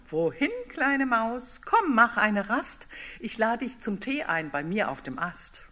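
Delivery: a lightly voiced owl offering tea; inviting owl.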